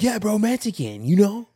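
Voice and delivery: playful high-pitched imitation of a friend; mock Big John. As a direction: squeak it out like a stoned buddy. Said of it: "You're like".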